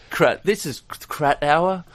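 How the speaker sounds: high, loud, drawn-out sponsor read; mock radio announcer. Host joking about sponsored kratom chat, mock announcer. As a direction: announce a silly sponsor with laughter breaking in.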